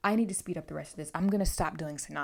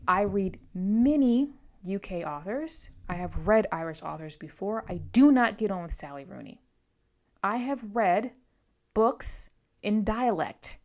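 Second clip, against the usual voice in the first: loud, measured, word-by-word rebuttal; emphatic retort; 6 dB louder than usual. Retold or imitated. Paraphrasing her retort to a critical comment, emphatic. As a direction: push back firmly, leaning on key words. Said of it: "And so thus I retorted".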